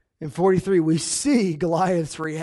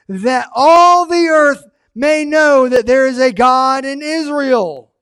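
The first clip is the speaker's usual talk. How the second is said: louder, higher, slow proclamation; proclaiming loudly; 6 semitones higher, 8 dB louder, slower than usual. Acted. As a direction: declare it to the whole valley. Climax of David's declaration.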